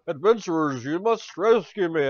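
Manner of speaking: lightly voiced Hank Hill soundalike; Aronak Stoneseeker. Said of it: "You kinda sound like Hank Hill".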